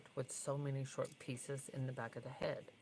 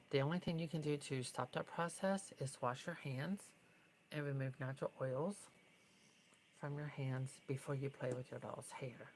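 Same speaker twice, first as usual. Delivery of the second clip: out of breath. Real, not acted. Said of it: "Sorry, I'm out of breath".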